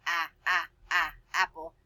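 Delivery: "Ah, ah, ah" before "apple"; sounding out. Shown as a demonstration. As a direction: stretch the short a sound. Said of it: "What sound is that?".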